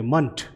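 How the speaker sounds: मंथ said with a short uh vowel, "munt"; ment ending. Shown as a demonstration. Teacher showing the suffix to students: मंथ as munt. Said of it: "pronunciation जो है वो मंथ करेंगे".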